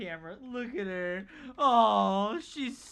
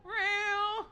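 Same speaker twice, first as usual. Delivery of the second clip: high mock meow; cat meow; 14 semitones higher, 4 dB louder than usual. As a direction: mew it like the cat. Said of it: "She's like".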